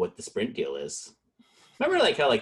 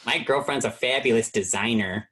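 put-on Chicago accent. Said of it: "Chicago accent".

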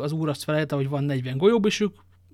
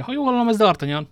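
higher, loud booming call; 7 semitones higher, 6 dB louder than usual. A narrator's reading. Athos calls out from behind the cellar door, booming. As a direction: boom it out through the door. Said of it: "Athos öblös hangja".

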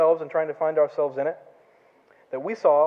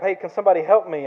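a raised call for help, pitched up; shouting for help; 3 semitones higher, 6 dB louder than usual. Retold or imitated. Man stuck in a hole calls up to passers-by, mock shout. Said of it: "he starts shouting up".

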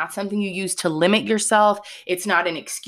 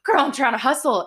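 frustrated quote; 6 semitones higher than usual. Retold or imitated. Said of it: "I'm over here like".

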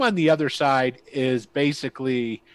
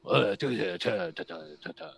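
lightly voiced goblin gibberish, trailing much softer; goblin babble; 5 semitones lower, 6 dB quieter than usual. Goblin answering the party in gibberish, lightly voiced. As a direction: babble nonsense syllables like a goblin. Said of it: "or whatever a goblin would say".

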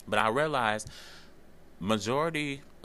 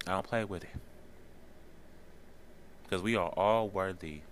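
crying while talking. Real, not acted. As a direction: push the words out through real tears. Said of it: "I'm sorry for crying on y'all".

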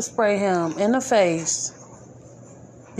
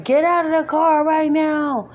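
higher, louder mock officer shout; retold police yell; 6 semitones higher, 3 dB louder than usual. Retelling the cop yelling at the soldier, loud mock shout. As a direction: bark it like a cop at a traffic stop. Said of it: "and just yelling".

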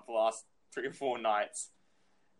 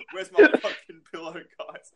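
a loud retold yell at the whole room; hammed-up shout of a mate who wants his pillow; mock angry yell; 5 semitones higher, 10 dB louder than usual. Mate yelling at his friends over his pillow, mock angry shout.

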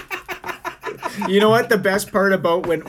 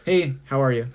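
lower, indifferent imitation; unenthused greeting; 6 semitones lower than usual. Imitating Justin replying to girlfriend, unenthused. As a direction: answer as if it's a chore. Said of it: "he's still like".

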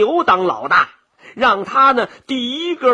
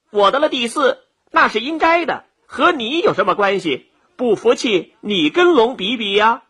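mildly huffy rabbit comeback; dismissive, with raised pitch at first; scornful retort; 2 semitones higher than usual. Acted. Rabbit snubs the dog claiming credit, scornfully. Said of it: "白了一眼狗".

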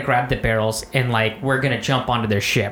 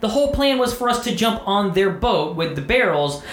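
much higher, heated rant at a teammate; frustrated rant; 8 semitones higher than usual. Retold or imitated. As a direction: chew out the buddy who blew it. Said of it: "I'm like".

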